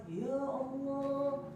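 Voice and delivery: slow, stretched-out Ya Allah in wonder; a husband stunned by what his wife did; amazed husband. Acted. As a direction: draw it out in disbelief.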